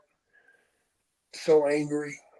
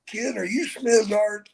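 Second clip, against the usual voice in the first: slurred question; 6 semitones higher than usual. Retold or imitated. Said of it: "he goes".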